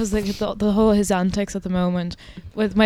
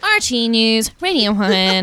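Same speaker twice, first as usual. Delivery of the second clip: lightly put-on news announcer cadence; RT newsreader voice; slower than usual. Co-host demonstrating the station's newsreader voice, measured announcer cadence. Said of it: "there's also the R T newsreader voice".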